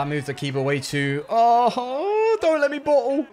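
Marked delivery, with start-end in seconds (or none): 1.3-3.3 high pleading worry; nervous pleading. Real, not acted. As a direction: beg yourself not to choke. Nervous gamer near the goal.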